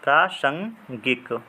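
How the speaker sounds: प्रासंगिक drawn out slowly and clearly; slow demo word. Shown as a demonstration. Teacher repeating the correct word, very slow and clear. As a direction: stretch प्रासंगिक out for the class. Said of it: "प्रासंगिक होता है".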